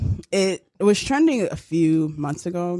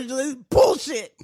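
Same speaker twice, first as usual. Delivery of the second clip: mock outrage; 3 semitones higher, much slower than usual. Imitating mad Wesley.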